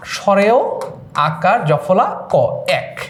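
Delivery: slow, careful spelling for students; slow spelling demo. Shown as a demonstration. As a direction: spell স্বরেয় আকার জফলা ক out slowly, letter by letter. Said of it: "উচ্চারণটা হয় এরকম".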